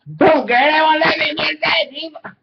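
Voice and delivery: imitating the woman.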